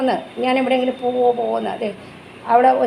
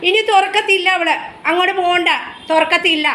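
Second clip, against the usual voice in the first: mock-stern warning to a pet; firm telling-off; 5 semitones higher than usual. Real, not acted. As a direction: tell the dog off, half stern. Mother firmly tells pet off.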